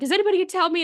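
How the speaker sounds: high, loud mock impatience; retold exasperated demand. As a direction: imitate someone fed up with being ignored. Ginny demands answers from friends, retold.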